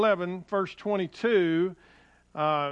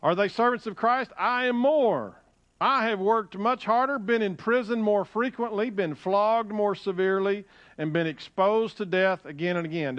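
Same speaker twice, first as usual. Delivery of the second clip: boastful scripture reading, pitched up at first; bragging; 4 semitones higher than usual. Acted. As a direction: read it out as Paul's proud boast. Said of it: "in your bragging session".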